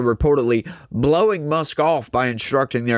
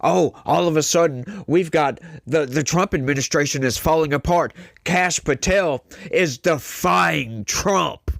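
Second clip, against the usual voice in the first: mocking quote; 4 semitones higher than usual. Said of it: "these people have lost their freaking mind".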